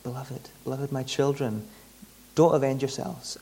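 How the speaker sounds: tender. Shown as a demonstration. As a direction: coax your children gently.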